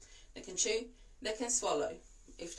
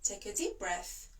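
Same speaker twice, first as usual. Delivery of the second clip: calm coaching; 4 dB quieter, slower than usual. Shown as a demonstration. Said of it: "And say".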